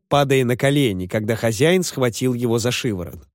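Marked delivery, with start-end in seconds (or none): none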